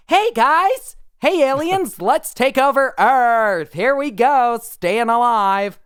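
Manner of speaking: high, loud hammed-up boyish guy voice, slowing on the last lines; mock John Travolta voice. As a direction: ham up a boyish movie-star swagger. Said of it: "the voice of Danny Zuko".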